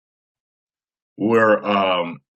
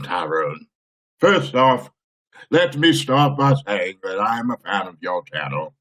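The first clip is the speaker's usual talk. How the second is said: voce regale e solenne; regal voice; 3 semitones lower than usual. Acted. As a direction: read it like a stately king. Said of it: "I'm gonna have to read this in my regal voice".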